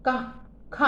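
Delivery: "क, ख" pushed out as whispered puffs of air; breathy consonant demo. Shown as a demonstration. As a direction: blow "क" and "ख" out so the air hits the hand. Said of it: "हाथ लगाइए".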